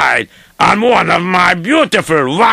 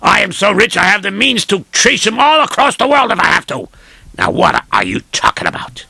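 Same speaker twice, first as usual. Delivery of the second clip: indignant rich man; faster than usual. Acted. Rich man rants at servant.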